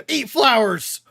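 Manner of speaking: slow, laughing, loud; loud laugh-through line. Real, not acted. Laughing at the scene.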